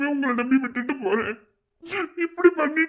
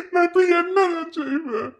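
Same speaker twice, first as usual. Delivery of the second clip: 1 crying despair; 6 semitones higher than usual. Acted. Brother despairs over missing Nila.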